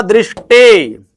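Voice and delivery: दृष्टि said slowly and clearly as "drishti"; teacher modelling दृष्टि slowly; slow model pronunciation. Shown as a demonstration. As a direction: stretch out दृष्टि for students to copy. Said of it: "ये क्या होगा?".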